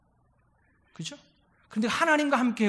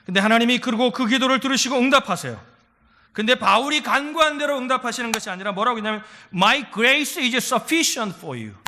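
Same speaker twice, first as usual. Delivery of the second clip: rising sermon fervor; 3 semitones higher, 5 dB louder than usual. Acted. Preaching climax.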